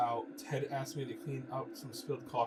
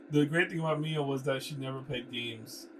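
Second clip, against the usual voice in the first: mock romance-novel line. Shown as a demonstration. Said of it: "look, he's doing it too".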